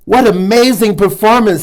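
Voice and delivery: Lily cheering a touch bigger; mild big voice. Acted. Lily praises the dancing water strider in a mildly bigger voice. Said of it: "said Lily in her biggest voice".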